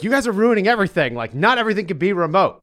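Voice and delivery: high-pitched mock complaint; joking mock yell. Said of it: "yelling at us as a joke".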